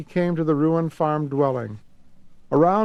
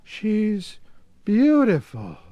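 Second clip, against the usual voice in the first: slow, awed; 6 semitones higher, much slower than usual. Acted. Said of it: "said Tom slowly".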